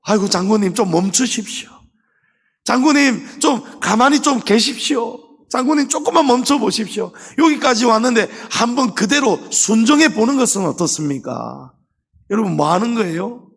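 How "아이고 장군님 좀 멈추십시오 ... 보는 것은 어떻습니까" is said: higher, urgent begging to the general; 장군을 붙잡고 애원하는 종들; pleading servants. Retold or imitated. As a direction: servants holding back their master, begging him to stop. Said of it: "종들이 뜯어말리잖아요".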